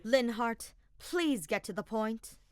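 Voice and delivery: impatient, cut him off; snapping. Acted. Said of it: "Edelgard snapped".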